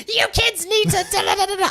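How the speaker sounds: high, loud, scolding gibberish; mock lecturing nonsense at teenagers. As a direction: pretend to lecture the kids. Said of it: "I didn't go in with just like".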